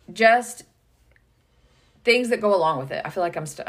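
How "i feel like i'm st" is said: stumbling over the words; tripping into a stammer. Real, not acted. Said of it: "I'm stammering here".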